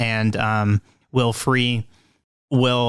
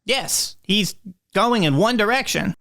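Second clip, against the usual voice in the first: Will voice; 9 semitones higher, slower than usual. Acted.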